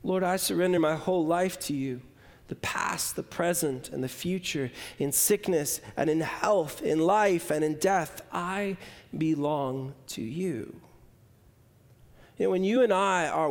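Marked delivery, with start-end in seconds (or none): 0.0-10.8 hushed prayer. Acted. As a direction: let the prayer sink down to a near hush. Prayer softening to its close.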